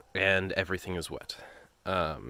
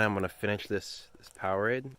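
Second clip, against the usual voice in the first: shivering; 5 dB quieter than usual. Real, not acted. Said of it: "Sorry about the shaking".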